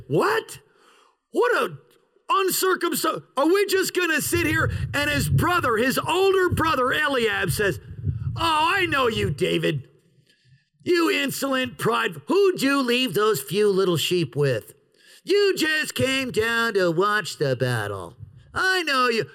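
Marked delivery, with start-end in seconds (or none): 0.1-4.7 higher-pitched, incredulous challenge; indignant David. Retold or imitated. David to soldiers just sitting there, mildly acted indignation. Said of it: "And David says". 8.4-19.2 lightly acted scornful scolding; railing older brother. Older brother rails on David, mock contemptuous scolding. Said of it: "The older brother rails on David".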